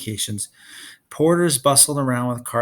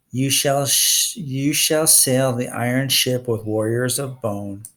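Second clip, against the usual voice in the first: slow, solemn recitation; recited prophecy; slower than usual. Acted. Clarice reciting her prophecy to Percy, slow and solemn. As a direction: intone it like an oracle. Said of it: "recited her prophecy".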